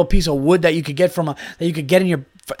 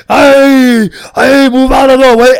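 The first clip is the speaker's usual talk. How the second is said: much higher, louder hammed-up bossy yell; mock shout; 8 semitones higher, 10 dB louder, slower than usual. Imitating the keg pusher clearing people, mock shout. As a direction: bark it like a costumed fair worker.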